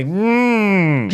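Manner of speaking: lightly mocking goofy nerd hum; goofy nerdy voice. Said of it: "literally with a fucking goofy, nerdy white voice".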